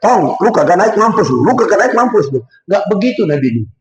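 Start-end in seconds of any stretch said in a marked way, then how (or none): 0.0-2.4 mock Betawi yell. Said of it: "pasti teriak".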